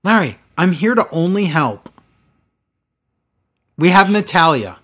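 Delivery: lightly mocked stilted catchphrases; imitating Lana. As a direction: parrot the awkward lines with mock gravity. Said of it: "Humans don't talk like this".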